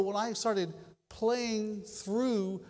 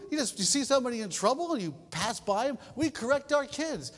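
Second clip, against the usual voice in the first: normal talking voice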